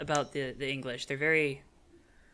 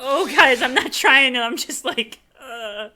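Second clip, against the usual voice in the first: high-pitched put-on Japanese English accent; imitated Japanese-English accent; 9 semitones higher, 7 dB louder, slower than usual. Excusing an accidental accent to others, high imitated Japanese-English accent. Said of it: "started speaking with a Japanese English accent".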